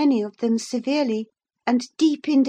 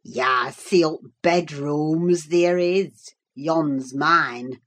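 deep, broad Yorkshire grumble, slow in places; gruff old servant scoffing at the guest; surly old Yorkshireman; 9 semitones lower, much slower than usual. Acted. Old servant brushing off the visitor, gruff Yorkshire scorn. Joseph's dialect voice.

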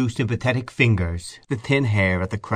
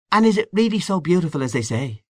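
lightly voiced wistful questioner, pitched high; a hint of eager innocence; shy, curious friend; 9 semitones higher than usual. A narrator's reading. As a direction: ask with naive wonder. Shy friend asks eagerly about Paris.

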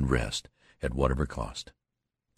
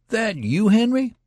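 much higher, astonished question; surprised recognition; 7 dB louder than usual. Acted. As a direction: peer in and ask in disbelief. Soldier recognizes friend in dark.

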